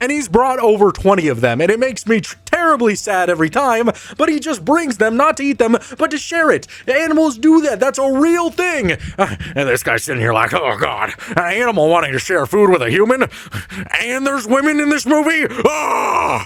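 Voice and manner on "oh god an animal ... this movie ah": play-acted frantic, escalating, freaked-out panic. Mocking a movie viewer's reaction: imitating someone freaking out. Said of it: "just freaking out".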